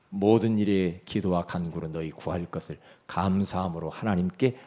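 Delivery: low, measured Bible recitation; scripture recitation. Acted. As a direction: recite the verse solemnly to the congregation.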